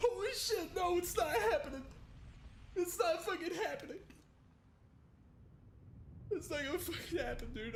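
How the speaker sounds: speaking while sobbing, crying through the words. Reacting to a game trailer reveal, crying while talking. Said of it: "I'm fucking crying".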